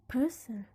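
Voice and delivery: "person" with PER stressed, falling after it; stress on first syllable. Shown as a demonstration. Teacher repeating the stem as an example, PER stressed in "person". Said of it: "stress is going to be in the first syllable".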